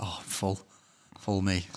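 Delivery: soft, pathetic mock moan; mock feeble whine. Mocking office workers who are full after yogurt, soft and pathetic. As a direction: play it limp and pitiful.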